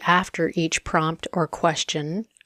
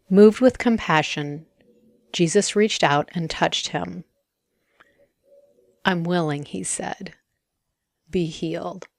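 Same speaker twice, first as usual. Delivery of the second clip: meditative scripture reading. A narrator's reading. Rereading the verse for listeners to meditate on, hushed ending.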